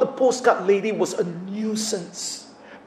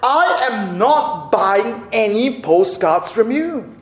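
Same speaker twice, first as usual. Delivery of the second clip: upset shout; 4 semitones higher, slower than usual. Retold or imitated. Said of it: "she shouted at the lady".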